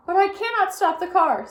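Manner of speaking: high, loud protest; panicked shout. A narrator's reading. Helpless driver shouts back at the policeman. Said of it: "said Mister Watson".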